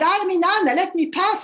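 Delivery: loud, proud command at the gate; a queen demanding to be let through. Acted. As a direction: announce yourself and demand entry. Inanna demands passage at gate.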